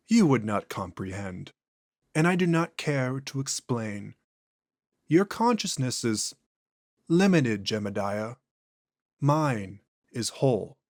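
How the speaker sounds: an ancient thing speaking through a man; eerie, unhurried entity; possessed alien voice. Acted. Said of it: "voice and inflections are noticeably different".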